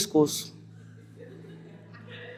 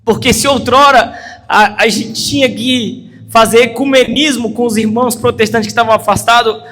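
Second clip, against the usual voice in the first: rising, louder preaching about division in the church; fiery sermon voice, higher and louder; impassioned preaching; 4 semitones higher, 4 dB louder than usual. Acted. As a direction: build to a fervent pulpit climax. Preaching at full force.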